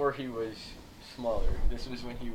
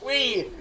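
squeal; 11 semitones higher than usual. Retold or imitated. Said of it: "it was you going".

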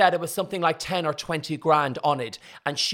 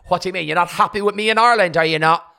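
mock indignation; 6 dB louder, faster than usual. Acted row with her partner.

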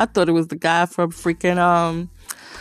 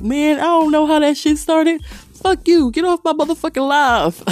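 higher, louder, mock furious yell; retold angry yelling; 10 semitones higher, 3 dB louder than usual. Imitating Darius cursing out a troll, louder and higher. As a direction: blast the troll like an angry host.

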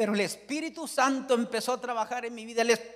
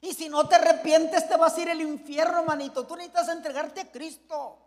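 tearful pleading sister; 5 semitones higher than usual. Retold or imitated. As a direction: plead like a sister close to tears. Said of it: "con lágrimas en los ojos". (hermana suplicando con un toque de lágrimas)

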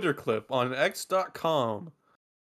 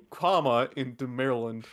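text-to-speech voice; 5 semitones higher, 10 dB louder than usual. Real, not acted. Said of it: "you sound like a fucking text-to-speech bot".

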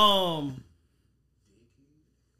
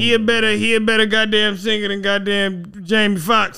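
heated; 4 semitones higher, 4 dB louder than usual. Real, not acted. Heated argument over singers.

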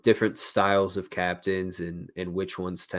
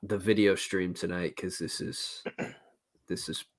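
blocked nose from toilet paper; talking with a stuffed-up nostril. Real, not acted. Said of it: "toilet paper up my nose currently".

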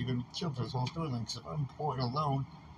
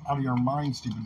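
angry outburst; 6 dB louder than usual. Real, not acted. Heated rant at others.

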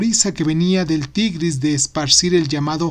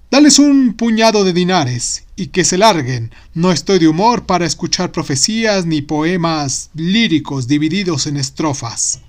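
loud, irritated ruler; annoyed caliph; 4 dB louder than usual. Acted. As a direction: wave them off impatiently. Caliph dismisses visitors.

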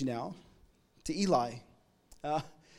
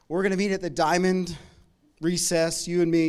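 louder, calling someone out at recess; loud schoolyard challenge; 6 dB louder than usual. Retold or imitated. Schoolyard bully calling a kid out at recess, loud challenge. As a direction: throw down the challenge loudly.

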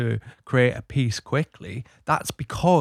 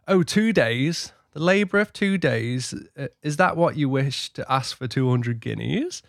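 put-on old-timey voice; 3 semitones higher than usual. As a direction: scoff like an old-fashioned judge. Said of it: "put the old-timey voice on there".

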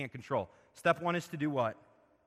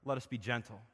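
gentle; 4 semitones lower, 5 dB quieter than usual. Shown as a demonstration. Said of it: "it's the picture of".

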